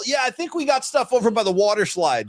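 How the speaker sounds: a hint of a cheery attendant; lightly voiced parking attendant. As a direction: play a parking helper improvising directions. Acts out offhand stadium parking attendant.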